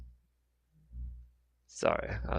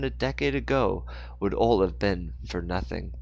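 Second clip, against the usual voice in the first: phrase-by-phrase storyteller read, strong openings; story narration; 3 semitones higher than usual. A narrator's reading. Narrator telling of Mister Moore's fall, story narration. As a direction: narrate the action with deliberate pauses.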